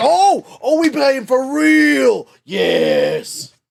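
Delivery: slow, creaky, rough, drawn-out, swooping character voice. Voicing Larry, an opponent ready to fight: Larry voice. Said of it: "He says".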